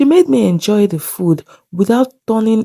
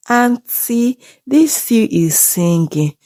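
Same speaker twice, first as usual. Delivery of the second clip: a hint of a little child's voice, raised on "Auntie"; lightly voiced small child; 4 semitones higher, slower than usual. Child telling neighbor about the singing stew, lightly voiced small child. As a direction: imitate your own childhood voice, only lightly. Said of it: "said in my baby's voice".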